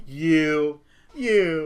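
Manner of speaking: breathy, unvoiced mock whisper. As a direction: whisper it, faking recognition. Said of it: "I just nod my head going like".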